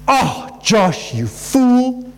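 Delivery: a lightly voiced exasperated jab at yourself; mock self-insult, half-hearted; self-scolding. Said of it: "if you just hear Josh saying".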